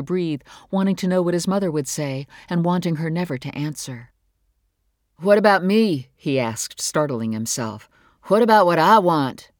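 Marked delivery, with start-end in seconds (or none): 5.2-9.5 sudden outburst. Acted. Teenage son breaking into his parents' fight, loud and raw. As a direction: blurt it out, surprising yourself. Boy bursting into parents' argument.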